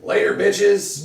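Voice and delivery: loud, slow, cocky taunt; parting taunt. Acted. Character taunting the guards while throwing grenades, loud and slow. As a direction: drag out the farewell as the pins come out.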